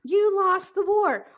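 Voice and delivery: mock American gloat. Two friends joking, mock gloating at the British. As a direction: crow it like an obnoxious patriot.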